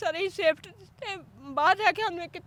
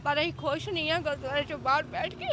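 real distress, tears coming at the end; breaking into tears. Real, not acted. Evicted mother telling the reporter she is unhappy outside, breaking into tears. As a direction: talk until the crying takes over. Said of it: "ਰੋਵੋ ਨਾ ਤੁਸੀਂ".

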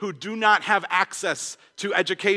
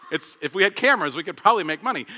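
chuckling through a self-mocking joke; laughing; faster than usual. Real, not acted. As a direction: laugh it out at yourself. Joking about yard work.

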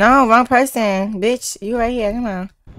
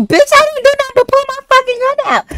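retold angry yell; faster than usual. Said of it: "I'm like".

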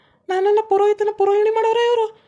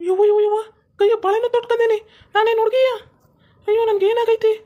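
higher, crying panic at the sari; panicked whimper; 4 semitones higher than usual. Acted. Priest waking in a sari, higher crying panic. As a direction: whimper in alarm at own clothes. Priest wakes up dressed as woman.

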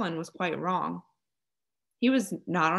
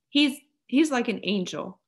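fiery defence; 5 semitones higher, 5 dB louder than usual. A narrator's reading. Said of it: "Mary's eyes flashed fire".

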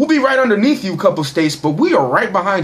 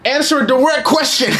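retold shout; 4 semitones higher than usual. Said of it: "I said".

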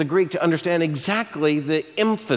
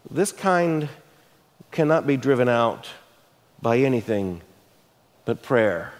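calm, kind answer; 5 semitones lower than usual. Retold or imitated. Jesus answering his disciples' question, calm and kind. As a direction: explain kindly rather than rebuke. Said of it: "Jesus speaks differently".

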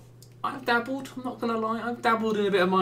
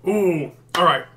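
psyched up; 10 dB louder than usual. Real, not acted. Psyching himself up to play.

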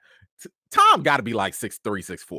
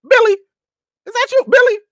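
far higher and louder, starstruck calling; excited call out; 11 dB louder, faster than usual. Retold or imitated. Fan calling out to a singer in passing, giddy.

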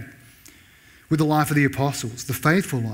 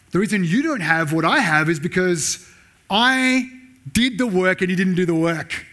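louder, smug and scornful, looking down on others; arrogant boast; 4 semitones higher, 3 dB louder than usual. Retold or imitated. Preacher voicing a proud Australian to the poor, smug and loud. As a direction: rub it in as if you earned everything.

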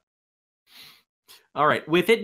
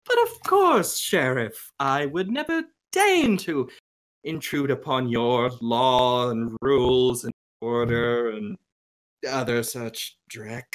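sheepish. Acted. Angelo assures the sheriff he would never intrude, sheepish. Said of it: "bit sort of sheepish at that and goes".

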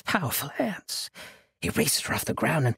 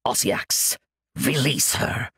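commanding; 3 dB louder than usual. A narrator's reading. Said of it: "Sekka commanded".

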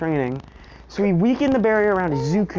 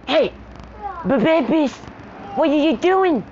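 calling out; 11 semitones higher than usual. Real, not acted. Calling out to kids mid-video.

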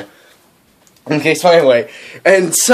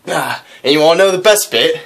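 put-on southern accent. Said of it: "he says it in a southern accent".

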